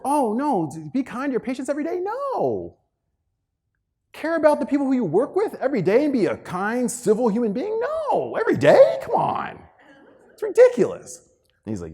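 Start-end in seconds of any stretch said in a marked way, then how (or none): 0.0-9.6 high, sarcastic mock outrage at the idea; mocking disbelief. Speaker scoffing at advice to a colleague, high and sarcastic. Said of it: "I was like". 10.3-11.3 mock outrage. Mocking the advice.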